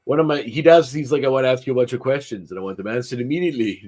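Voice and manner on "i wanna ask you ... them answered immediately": higher-pitched imitated action-star demand; Arnold Schwarzenegger. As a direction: do the movie star interrogating someone. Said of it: "lines from Schwarzenegger movies".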